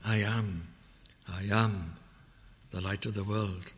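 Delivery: "I am" set apart by a pause; stress on "I am". Shown as a demonstration. Preacher pointing listeners to the I am sayings, stress on "I am". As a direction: lean on "I am", then pause. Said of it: "emphasis here at the moment on".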